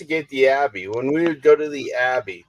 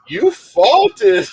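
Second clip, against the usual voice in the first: higher-pitched mock English accent; 9 semitones higher, 4 dB louder than usual. Quoting the app to an English friend, English accent. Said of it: "in an English accent, like your accent".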